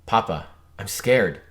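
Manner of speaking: put-on small frightened child voice; scared child. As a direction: plead like a scared little kid.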